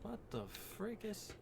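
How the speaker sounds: high, goofy outrage; silly indignant. Real, not acted. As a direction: squeak it out in mock outrage.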